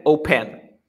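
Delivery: "open" with the weight on -PEN; stress on last syllable. Shown as a demonstration. Teacher offering the wrong option, "open" stressed at the end. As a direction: lean on the second syllable of "open". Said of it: "¿Cómo se pronuncia?".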